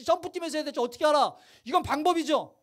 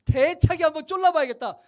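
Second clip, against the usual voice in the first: bold resolve; 6 dB louder than usual. Shown as a demonstration. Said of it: "이런 마음으로 오는 거예요".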